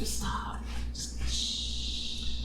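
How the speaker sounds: soft, voiceless hush; whispered self-shushing. Retold or imitated. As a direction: whisper as if shushing your own thoughts. Shushing herself in retold thought.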